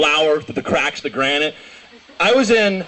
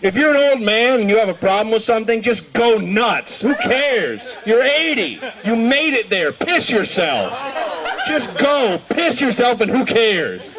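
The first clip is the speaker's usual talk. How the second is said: gleeful urging; 5 semitones higher than usual. Real, not acted. Cheering the old man on.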